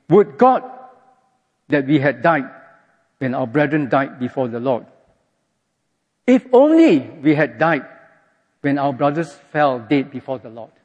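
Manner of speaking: reading the people's sarcastic complaint against Moses; sarcastic and aggressive. Retold or imitated. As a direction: needle Moses with a bitter sarcastic jab. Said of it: "sarcastic and aggressive way of putting it to Moses".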